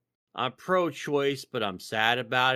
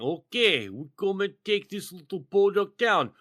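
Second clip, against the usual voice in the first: higher, louder panicked soldier voice; hammed-up startled invaders; mock Russian soldiers; 6 semitones higher, 4 dB louder than usual. Mocking Russian soldiers finding no tanks, in a panicked voice.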